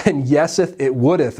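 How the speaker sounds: hammed-up archaic "stinketh" and "wouldeth" with a laugh; mock King James English. Preacher joking to his congregation, mock archaic. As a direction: play at old Bible English, tongue in cheek. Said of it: "in the King James Version".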